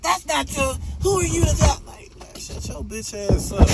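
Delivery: high, whiny mock of a fanboy. Mocking a fanboy who defends his player, high and whiny. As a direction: squeak it like a crybaby fan.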